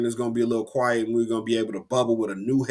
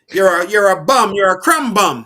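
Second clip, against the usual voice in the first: louder, higher mocking yell; yelling insult; 5 semitones higher, 9 dB louder than usual. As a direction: bark the insult at him. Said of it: "old boy calling dude a crumb bum".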